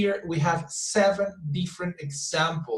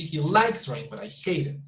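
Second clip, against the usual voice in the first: LIKES stands out and falls, HATE emphasized; exaggerated stress on LIKES and HATE. Shown as a demonstration. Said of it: "it's absolutely okay if you exaggerate".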